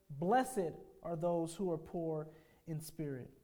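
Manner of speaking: BLESSED stressed first, then measured phrases; emphatic pronouncement. Retold or imitated. Preacher quotes King Jesus to the congregation, emphatic. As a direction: pronounce "Blessed" as a settled fact, pausing after it. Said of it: "he stated emphatically".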